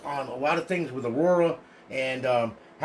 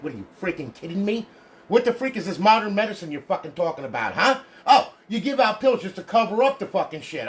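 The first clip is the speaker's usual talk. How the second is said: angry rant; 4 semitones higher, 3 dB louder than usual. Real, not acted. Ranting at doctors, mock address.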